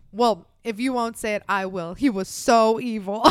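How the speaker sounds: a hammed-up Boston radio host; mock Boston host. Podcast host quoted on air, hammed-up thick Boston accent.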